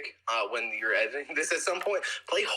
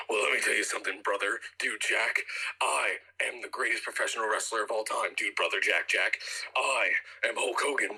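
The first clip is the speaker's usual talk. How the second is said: Hulk Hogan impression; 3 semitones lower than usual. Co-host doing his Hulk Hogan impression, lower mock promo. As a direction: lower mock wrestler promo with brother tacked on. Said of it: "for my impression?".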